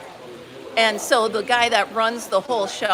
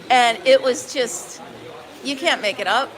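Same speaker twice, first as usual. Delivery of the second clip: ordinary delivery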